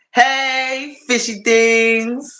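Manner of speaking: high drawn-out hello; excited greeting. Real, not acted. Streamer says hey to a regular viewer, excited and high. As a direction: call out to a buddy, stretching the name.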